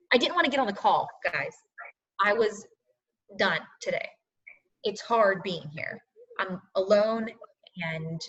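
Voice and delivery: struggling to get the words out; real sadness. Real, not acted. Tired coach admitting to followers she was done today, sad and soft. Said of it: "I'm gonna get all emotional".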